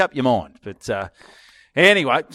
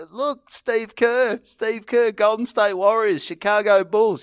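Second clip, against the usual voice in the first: retold insistent pitch; 8 semitones higher, slower than usual. Showing photos to the baffled wife.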